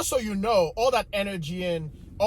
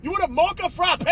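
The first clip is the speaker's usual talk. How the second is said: much higher, incredulous mock rant; inner disbelief; 9 semitones higher than usual. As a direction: play the outrage he only thought. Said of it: "I didn't say all that inside".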